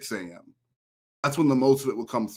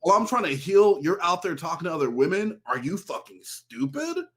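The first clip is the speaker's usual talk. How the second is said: mock furious ex; 5 semitones higher than usual. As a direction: spit it out like she's insulted. Acting out ex's furious reply.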